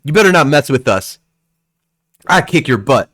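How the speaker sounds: put-on boy making a mild threat; lightly voiced little boy. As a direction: put on a hint of a tough little brother. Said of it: "he looks over at you and he goes".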